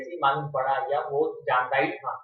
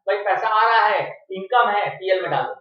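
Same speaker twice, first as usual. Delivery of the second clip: careless accountant; 3 semitones higher, 7 dB louder than usual. Retold or imitated. Voicing a careless normal accountant.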